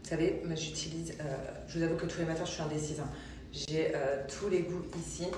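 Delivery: speaking through a mouthful of foam; while brushing teeth. Real, not acted. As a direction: mouth full of toothpaste. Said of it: "je me brosse les dents".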